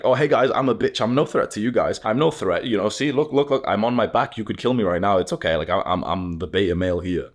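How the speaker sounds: high, eager, pleading mock submission; hammed-up beta male voice; submissive beta dog. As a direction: grovel like a dog rolling over. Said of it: "dog... showing his belly".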